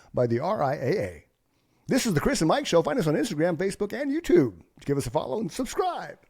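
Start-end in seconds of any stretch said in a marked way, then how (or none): 1.9-6.1 put-on radio DJ delivery, pitched up. A co-host of the Chris and Mike Show reads its plug; radio announcer voice. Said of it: "That's my radio voice".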